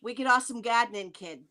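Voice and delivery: light Boston accent, R dropped in Gadnin. Shown as a demonstration. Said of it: "my channel name in my native Bostonian is".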